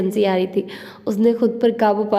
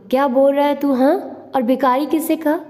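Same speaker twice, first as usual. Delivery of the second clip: angry; 5 semitones higher than usual. Acted. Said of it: "गुस्से से कहा".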